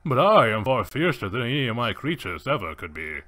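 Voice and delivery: lightly theatrical gentleman villain; Safari. Acted. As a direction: play a proud villain making his threat. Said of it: "pull his rifle up and be like".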